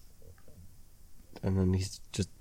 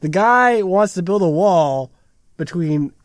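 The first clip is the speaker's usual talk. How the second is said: crazy voice; 6 semitones higher, 7 dB louder than usual. Real, not acted. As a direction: get worked up and shout it out. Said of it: "It's my crazy voice".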